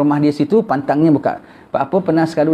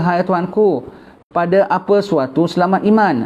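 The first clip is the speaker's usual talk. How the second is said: slightly raised, measured recitation of a religious text; kitab reading; 3 semitones higher than usual. Acted. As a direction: read the kitab passage formally. Reads kitab text aloud. (bacaan kitab yang teratur)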